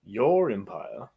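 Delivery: distant tv audio bleeding in; movie sound from another room; tv through wall. Real, not acted. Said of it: "Can you still hear that?".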